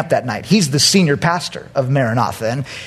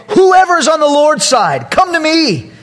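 Moses calling out; 11 semitones higher, 4 dB louder than usual. Acted.

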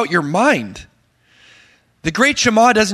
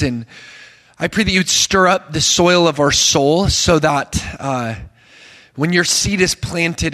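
earnest prayer. Acted. Leads an opening prayer.

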